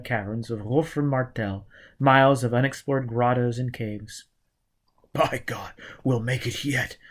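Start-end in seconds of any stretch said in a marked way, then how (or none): 5.1-7.0 mumbled. A narrator's reading. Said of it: "Foyle mumbled".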